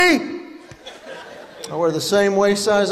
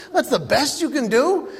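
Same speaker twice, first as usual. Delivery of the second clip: echoed question pitched up, a mock disbelieving rise on "That's the best you can do?"; incredulous; 4 semitones higher than usual. Comedian retelling the airport agent exchange, mock incredulous rise. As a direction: repeat the agent's line back in disbelief. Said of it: "I said".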